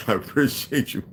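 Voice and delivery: high-pitched mimicry of his own sign-off; mocking self-imitation. Streamer mocking how he just thanked viewers, high-pitched mimicry. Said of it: "What's like?".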